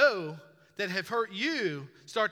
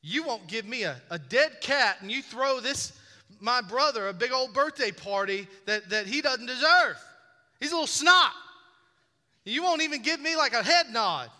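put-on 1 whiny kid complaint; 5 semitones higher, 7 dB louder than usual. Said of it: "I'd be like".

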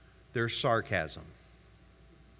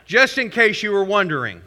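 dry joke; 3 semitones higher, 7 dB louder than usual. Real, not acted. Joking aside to congregation.

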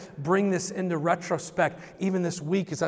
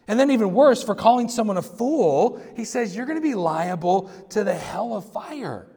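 preaching emphasis; 4 semitones higher, 5 dB louder than usual. Real, not acted. Preaching climax, rising emphasis.

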